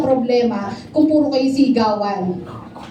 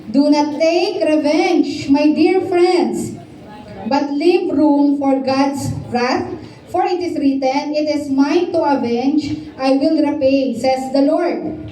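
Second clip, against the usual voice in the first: slow, deliberate Bible reading; measured sermon scripture read; slower than usual. Acted. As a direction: read the verse out phrase by phrase. Congregation reading Romans passage.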